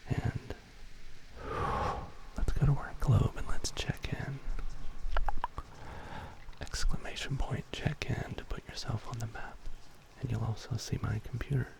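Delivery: hushed, breathy whisper with lingering pauses; ASMR whisper. Pretend.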